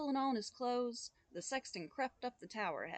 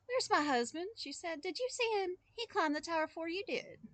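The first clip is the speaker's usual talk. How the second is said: higher, anxious woman's voice; worried wife; 8 semitones higher than usual. Acted. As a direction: press the boy for answers, high and urgent. Worried wife waking boy.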